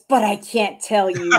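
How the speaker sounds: laughing through the words; amused. Real, not acted. Host joking about keeping the family in the dark, amused. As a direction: say it breaking into a laugh.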